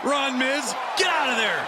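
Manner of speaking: urgent call. Real, not acted. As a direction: egg him on to run, urgently. Commentator urges Miz to flee.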